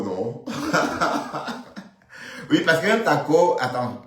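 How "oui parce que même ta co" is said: parler en plein rire, fort et haut perché; hilare. Real, not acted. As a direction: lancer ça à travers un éclat de rire. Rit de sa propre taquinerie. (en riant, voix forte et aiguë)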